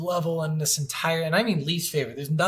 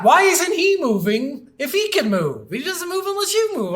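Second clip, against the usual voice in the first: laughing exasperation; 11 semitones higher, 5 dB louder than usual. Retold or imitated. Player recalling the boxing opponent who never moved, high laughing exasperation. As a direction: squeak it out in giggling frustration. Retelling confused thoughts while gaming.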